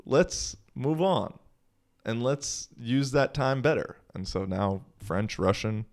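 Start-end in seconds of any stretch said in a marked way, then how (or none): 0.1-4.0 self pep talk. Retold or imitated. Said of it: "then I was like".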